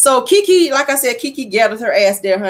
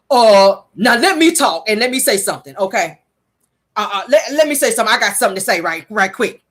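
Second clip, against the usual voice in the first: nasty ghetto talk. Retold or imitated. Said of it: "That's how she talk, real nasty and ghetto-like".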